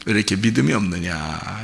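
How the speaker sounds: gentle rebuke. Retold or imitated. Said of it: "주님이 손을 또 딱 잡고".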